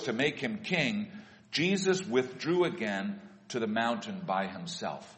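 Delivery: measured, projected public Bible reading; scripture reading. Real, not acted. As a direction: read the Gospel aloud to a congregation, phrase by phrase. Reads Gospel passage aloud to congregation.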